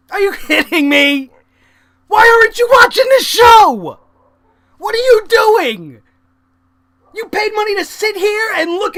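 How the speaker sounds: loud, disbelieving yell at the fans; incredulous shouting at people on phones; exasperated yell. Real, not acted. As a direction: shout it at them like they can't hear. Yelling at absent fans.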